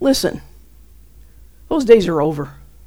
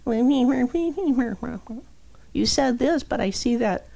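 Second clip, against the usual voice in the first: mock the doubter's whine; whiny complaint; 3 semitones higher, 8 dB quieter, slower than usual. Quoting her own whiny reply to God, softly. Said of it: "Do you believe".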